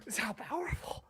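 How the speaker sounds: high, very soft tearful voice; choked-up mock crying. Podcaster moved by his own impression, mock choked-up. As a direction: squeeze the words out through put-on tears. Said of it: "It's making me cry".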